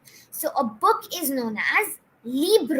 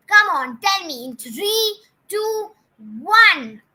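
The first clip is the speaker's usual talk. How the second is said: higher, louder playful countdown; excited countdown; 5 semitones higher, 5 dB louder than usual. Acted. Teacher counts down for students to answer, excited. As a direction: build suspense counting down.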